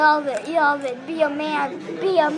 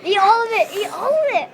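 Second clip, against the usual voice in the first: loud pushy chant; egging on loudly; 4 semitones higher, 5 dB louder than usual. Real, not acted. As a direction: shout him on to finish. Urging friend to eat.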